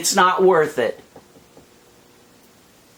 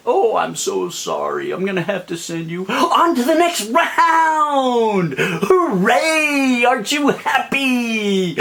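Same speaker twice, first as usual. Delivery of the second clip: mocking Howie Mandel; 3 semitones higher than usual. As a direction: mimic a fake-nice judge gloating. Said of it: "I saw you do the same freaking thing".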